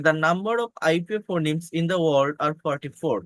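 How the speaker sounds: teacher reading a slide slowly; slow reading aloud. Shown as a demonstration. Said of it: "এখানে দেখেন বলছে".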